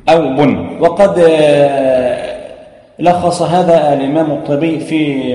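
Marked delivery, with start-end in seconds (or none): 0.2-0.7 بن said as bin, nunation with kasra; tanween sound demo. Shown as a demonstration. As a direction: voice بن clearly as bin, tanween ending. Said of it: "مثلًا تقول".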